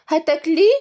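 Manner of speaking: high-pitched mock dismay; hammed-up disappointed questioning; fake upset. A narrator's reading. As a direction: whine as if robbed of a treat. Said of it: "وقالت بزعل مصطنع".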